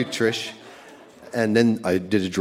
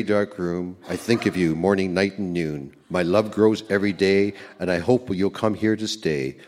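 a homemade poem read solemnly; reciting a poem; 2 semitones lower than usual. Pretend. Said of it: "I've taken up poetry".

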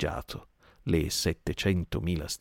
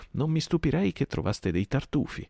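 higher, mock-breezy goading; insolent calm; 9 semitones higher than usual. Silver goads the digging pirates, calm insolence. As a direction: needle them while staying cool. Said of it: "con tranquillissima insolenza".

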